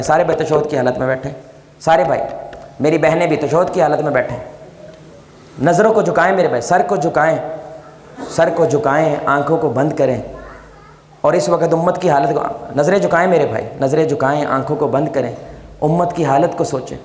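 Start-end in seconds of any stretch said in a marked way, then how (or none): 5.6-17.0 calm lowered instruction to bow and close eyes; guiding reflection. Acted. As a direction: lead the room gently into stillness. Leads congregation into reflection.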